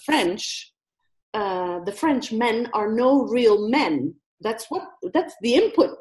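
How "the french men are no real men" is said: put-on American accent. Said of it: "as the American lady".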